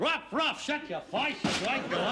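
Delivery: high barked dog noises in mock Australian; put-on Aussie telling off a dog; Australian accent. Son playing sheep farmer to his dog, mock Australian accent. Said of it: "you can do an Australian accent".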